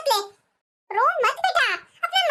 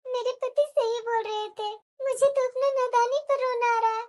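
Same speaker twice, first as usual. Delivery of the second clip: regretful. Acted. Daughter's regretful closing monologue.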